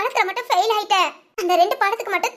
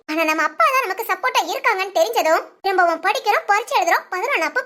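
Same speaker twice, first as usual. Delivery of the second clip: lower, steady narrator's wrap-up; story narration; 3 semitones lower than usual. A narrator's reading. Host to viewers closing the episode, calm narration.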